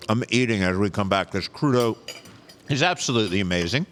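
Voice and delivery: talking while chewing; words through a mouthful of food; mouth full. Real, not acted. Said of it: "I'm not supposed to talk with my mouth full".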